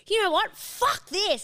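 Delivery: Ella losing patience in the stuck car, fed-up outburst. Retold or imitated. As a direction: blurt it out, done with waiting.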